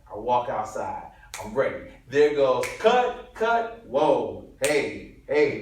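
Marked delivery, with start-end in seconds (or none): 2.1-5.6 yelled take. Retold or imitated. Extra yelling his line, director shouting cut.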